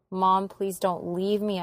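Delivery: slow, pleading plea; begging. Retold or imitated. Daughter begging her unresponsive mom, slow pleading. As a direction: beg her slowly to come back. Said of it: "I begged".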